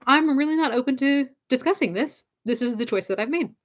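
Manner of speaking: gentle but firm refusal, no snark; not snarky. Shown as a demonstration. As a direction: decline kindly, no bite at all. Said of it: "You don't have to say it in a snarky tone".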